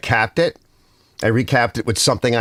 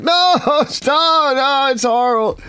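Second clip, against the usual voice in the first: much higher, laughing mock plea to stop; laughing protest; slower than usual. Recalling a fuzzy livestream camera, high laughing protest. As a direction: squeal it out through a laugh. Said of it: "I'm like".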